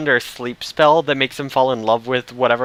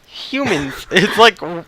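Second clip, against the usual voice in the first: imitated Brooklyn priest; 5 semitones higher, 4 dB louder, slower than usual. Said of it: "lapsing into a terrible Brooklyn accent".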